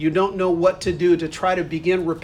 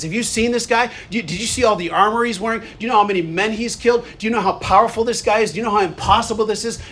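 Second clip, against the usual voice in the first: anxious gossip; 4 semitones higher, faster than usual. Retold or imitated. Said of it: "talking to each other about how big".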